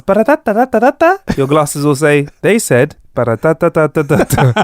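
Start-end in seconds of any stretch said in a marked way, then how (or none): 0.0-1.2 mock foreign gibberish. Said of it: "someone comes up and goes". 2.4-4.5 light mock Italian accent on gibberish. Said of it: "in an Italian accent".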